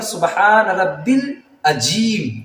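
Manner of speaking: العظیم said with a j sound; wrong recitation. Shown as a demonstration. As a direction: say العظیم as ajim. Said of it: "کچھ لوگ اس طرح پڑھتے ہیں". (غلط ادائیگی، ج کی آواز)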